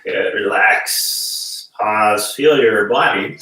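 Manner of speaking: slow, unvoiced calming coach voice; calm guidance. Shown as a demonstration. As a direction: ease them into relaxing, very slowly. Guiding a breathing exercise.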